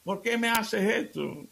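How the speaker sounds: high, pleading mock protest; mock outcry. Bleeding husband protests to his wife, high hammed-up outcry. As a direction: squeal the complaint up high, slowing at the end. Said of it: "empieza a dar gritos".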